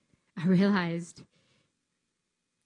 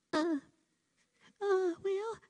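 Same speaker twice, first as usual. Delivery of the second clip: nervous stammer; 12 semitones higher, slower than usual. Retold or imitated. Hesitant stammer before trainer.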